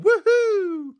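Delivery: high, excited little whoop; cheerful woohoo. Retold or imitated. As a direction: cheer it like a happy fan. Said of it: "there's September going".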